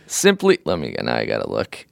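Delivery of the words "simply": mock whiny letter voice. Reading listener letter in voice.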